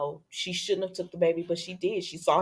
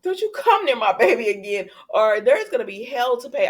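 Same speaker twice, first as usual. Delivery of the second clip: mock threat; 5 semitones higher, 4 dB louder than usual. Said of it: "He said".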